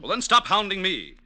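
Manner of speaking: loud, fed-up snap at her; angry outburst. Acted. Lang tells Elizabeth to stop hounding him, angrily loud. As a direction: push her off hard, sick of being nagged. Lovers quarrel in the garden.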